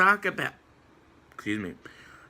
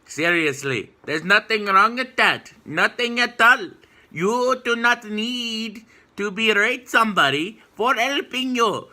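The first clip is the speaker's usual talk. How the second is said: higher and louder, fed up and pleading; exasperated shout; 8 semitones higher, 4 dB louder than usual. Real, not acted. Vlogger scolding critics who reject allies, exasperated shout. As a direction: throw up your hands and shout it.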